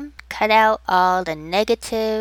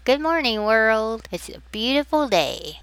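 bright, smiling good morning; 3 semitones higher than usual. Shown as a demonstration. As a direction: let the smile be heard in it. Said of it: "Can you hear the smile in my voice?".

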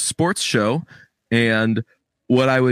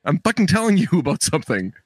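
retold indignation; 5 semitones higher than usual. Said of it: "I'm like".

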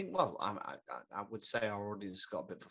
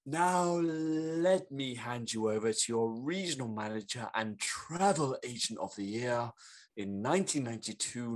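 slow, louder compere build-up to the name; stage announcer; 4 semitones higher, 7 dB louder than usual. Acted. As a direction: announce her like a game show host. Host introduces Bernice on stage.

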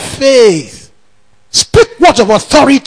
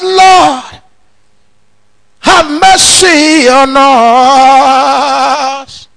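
mock wailing prayer; 2 semitones higher, much slower than usual. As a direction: ham up a wailing plea for mercy. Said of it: "wrong application of the Bible".

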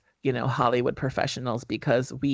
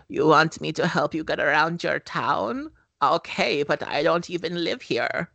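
a singer; 2 semitones higher than usual. Retold or imitated. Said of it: "it didn't sound like the singer at all".

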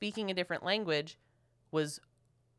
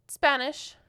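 curt answer; 8 semitones higher, 7 dB louder than usual. Retold or imitated. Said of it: "And I said".

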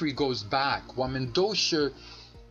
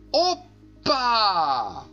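loud high "欧巴" exclamation; joyful Greek cheer; 7 semitones higher, 6 dB louder than usual. Shown as a demonstration. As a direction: shout "欧巴" like a dancing Greek. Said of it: "他会说".

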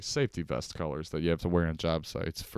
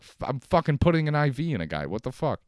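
outraged nurse; 6 semitones higher, 4 dB louder than usual. Retold or imitated. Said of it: "You're like".

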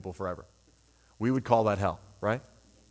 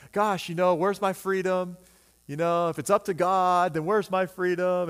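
higher, complaining about lost freedom; mock indignant listener; 5 semitones higher than usual. Preacher voicing an annoyed listener, mock indignant and higher. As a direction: whine like an offended churchgoer. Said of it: "because you're like".

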